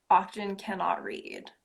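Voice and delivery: whispered self-mocking aside. Real, not acted. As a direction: whisper the end. Whispered punchline.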